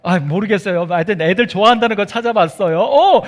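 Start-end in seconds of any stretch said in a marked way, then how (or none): none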